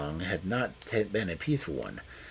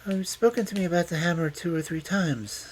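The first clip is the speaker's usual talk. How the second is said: higher-voiced, calm woman; 10 semitones higher, 3 dB louder than usual. A narrator's reading. Detective reminding the old man, calm. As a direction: answer calmly, pitched up. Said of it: "said Loveday calmly".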